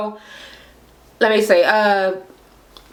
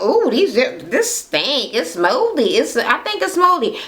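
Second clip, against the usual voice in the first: disgusted complaint; 6 semitones higher, slower than usual. Retold or imitated. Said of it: "they were like".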